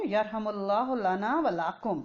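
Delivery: یرحم اللہ لنا ولکم repeated slowly, word by word; slow recitation. Shown as a demonstration. Teacher repeats the reply slowly so students catch it. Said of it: "اس نے کیا کہنا ہے؟".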